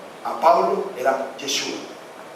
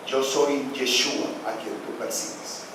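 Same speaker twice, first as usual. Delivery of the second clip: voz celestial suave; 4 semitones lower, 7 dB quieter than usual. Acted. Voz del cielo responde.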